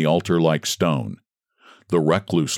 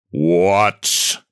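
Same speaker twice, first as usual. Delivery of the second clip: mock shriek. A narrator's reading. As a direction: shriek it in outrage. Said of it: "shrieked the recluse".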